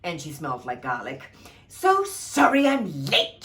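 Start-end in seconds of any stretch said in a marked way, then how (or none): 1.7-3.4 sugary snarl, high, loud and slow; a late fairy snarling an apology sweetly. Acted. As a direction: fake sweetness with teeth behind it. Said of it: "she snarled sweetly".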